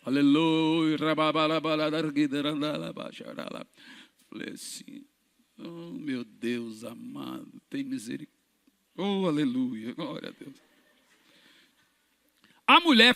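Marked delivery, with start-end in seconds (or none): 0.0-3.7 low, quiet mock tongues prayer; speaking in tongues. Preacher imitating his own prayer, mock tongues. 4.3-5.0 breathy unvoiced aside; whispered aside. Real, not acted. Preacher telling the crowd, whispered. 5.6-10.6 slow, much softer murmured prayer. Retold or imitated. Preacher retelling his prayer, murmured.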